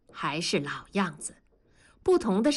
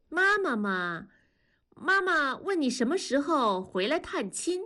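put-on lightly raised child's voice reading a letter home; a kid reciting the family letter to Dad, a touch higher; 4 semitones higher than usual. Child Nanfang reads letter aloud.

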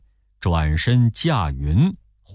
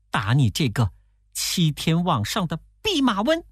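lightly voiced demon, higher and quick; a hint of a spiteful demon mocking the Monkey King; fast, pitched up jeering; the demon taunting; 7 semitones higher than usual. A narrator's reading. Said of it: "那妖怪说".

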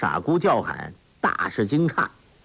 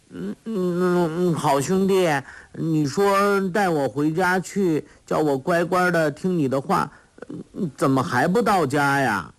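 put-on simple girl crying out; 7 semitones higher than usual. A narrator's reading. Sha Gu complaining she is hungry, high childlike whine.

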